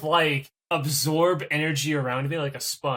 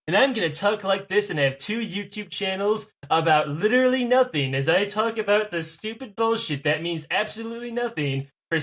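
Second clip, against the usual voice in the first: Matt Pat impression. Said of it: "with inflections every other word".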